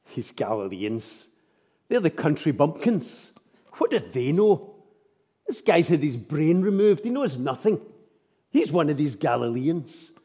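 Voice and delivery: lightly voiced scornful mocker, with a laugh early on; mocking jibe. Preacher voicing mockers who call Galileans stupid, scornful. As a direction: belittle the country bumpkins. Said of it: "prodding at mockery".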